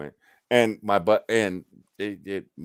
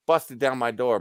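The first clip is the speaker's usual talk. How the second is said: normal talking voice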